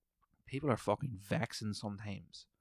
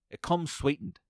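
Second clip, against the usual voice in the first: snide barista; 6 semitones higher than usual. Retold or imitated. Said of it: "the way she said these two things was so cunty".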